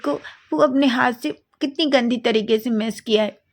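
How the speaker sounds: lightly voiced whiny kid; child complaining. Child complaining about ruined chocolate.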